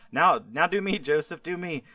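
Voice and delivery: impatient eagerness, raising the voice a bit; eager. Retold or imitated. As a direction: prisoner eager for his turn, lightly excited. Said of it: "so he starts getting excited".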